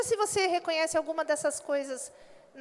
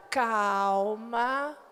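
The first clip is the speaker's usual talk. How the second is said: lower, gentle single word; calm; 7 semitones lower than usual. Shown as a demonstration. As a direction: settle the agitation. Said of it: "você".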